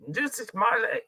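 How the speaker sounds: lightly imitated Dave Chappelle saying "Juicy Smiley"; Dave Chappelle impression. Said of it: "That's my Dave Chappelle impression".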